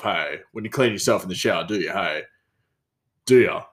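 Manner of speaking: lightly voiced chef, a "hey" on every phrase; imitating the hey guy. Mimicking the chef telling someone off, hey after every line. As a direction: mimic a coworker who tacks "hey" onto every sentence. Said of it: "He's like".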